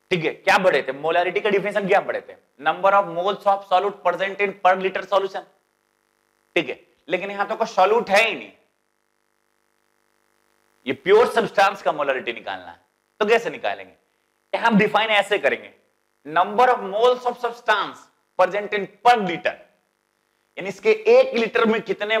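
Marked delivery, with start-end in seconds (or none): 2.6-5.4 slow dictation. Shown as a demonstration. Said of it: "teacher recites definition slowly". 16.3-19.6 very slow, each word drawn out for notes; slow dictation. Shown as a demonstration. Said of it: "teacher dictates new definition".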